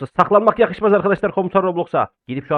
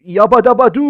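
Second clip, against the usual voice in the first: cartoon catchphrase; 5 semitones higher, 7 dB louder than usual. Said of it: "o başka bir karakterin değil lan".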